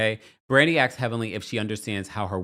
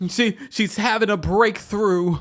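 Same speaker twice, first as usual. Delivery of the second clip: high, slow, hammed-up weepy voice; drawn-out mock emotion; mock tearful announcement; 10 semitones higher, 4 dB louder than usual. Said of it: "Why is she crying?".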